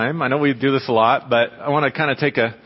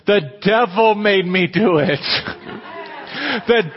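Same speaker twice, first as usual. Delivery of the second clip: put-on childish wail, slow and pitched up; angry despair; 5 semitones higher, slower than usual. A boy wailing the devil made him do it. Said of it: "as angry and just in despair".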